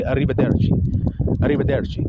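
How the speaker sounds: arrivederci with tapped, rolled R's; Italian pronunciation. Shown as a demonstration. Showing viewers his careful Italian class goodbye, arrivederci with rolled R's. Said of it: "you see how I'm rolling the R's".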